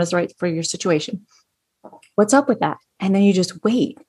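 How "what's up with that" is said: casual, open question; even-keeled and neutral; elevator tone. Shown as a demonstration. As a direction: ask it lightly, without judgment. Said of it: "have that elevator tone of voice".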